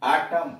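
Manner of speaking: आटम ending on m; silent n in आटम. Shown as a demonstration. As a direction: say autumn as आटम, no final n. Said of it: "यहाँ यन का उच्चारण नहीं है".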